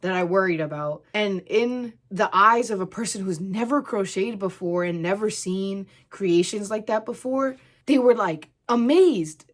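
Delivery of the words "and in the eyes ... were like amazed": excited. Real, not acted. Excited retelling of customers.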